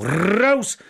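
high, sharp yell; yelled order. A narrator's reading. Prisoner yelling at men sitting below, yelled order. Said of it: "wrzasnął".

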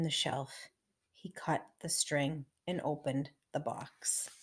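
measured, emphatic storybook narration; story reading for children. A narrator's reading. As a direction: read it aloud to little listeners.

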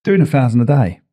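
hiccup breaks the words. Real, not acted. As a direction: speak through the hiccups. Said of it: "have you got the hiccups".

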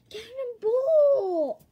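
long, high, laughing yell; cannonball yell. Pretend. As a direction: shout it mid-jump, laughing. Jumping in, calling out.

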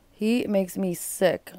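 slow, heavy words of real disgust. Real, not acted. Host condemning the husband to viewers, slow disgusted. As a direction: drag it out like it turns your stomach.

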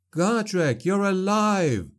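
relieved. A narrator's reading. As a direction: burst out with relief. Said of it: "relief flooding him".

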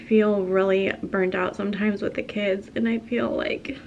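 quiet, on the edge of tears; fighting real tears, voice soft; emotional, holding back tears. Real, not acted. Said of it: "I don't know why I'm getting so emotional right now".

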